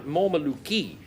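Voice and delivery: Mormaluki said carefully, stress on the ma; his own pronunciation. Shown as a demonstration. Host offers his way of saying Mormaluki, careful pronunciation. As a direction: spell out Mormaluki as mor-ma-LOO-kee. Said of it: "is the way I'd say it".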